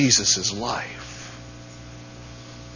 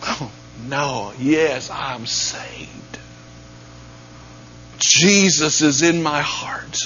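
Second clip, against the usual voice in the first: reverent whisper; slower than usual. Retold or imitated. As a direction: whisper it as something precious. Contrasting cheap and treasured answer.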